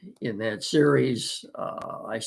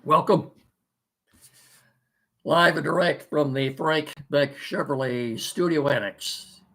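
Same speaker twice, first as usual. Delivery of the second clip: scratchy, hoarse throat; 2 semitones higher than usual. Real, not acted. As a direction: talk through a hoarse throat. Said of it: "Pardon the voice".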